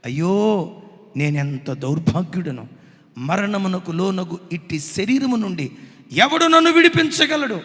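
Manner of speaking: loud lament, rising to a cry at the end; mock anguished cry. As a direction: cry out like the wretched apostle. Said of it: "కేకలు వేశాడు". (గట్టిగా విలపిస్తూ కేక)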